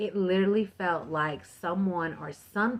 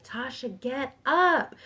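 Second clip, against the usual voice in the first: high retold yell, rising louder on "get up"; retold scream; 6 semitones higher, slower than usual. Woman screaming at herself to get off the couch, retold scream. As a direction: yell it as a retelling, pitch jumping up. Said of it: "I was screaming this out loud".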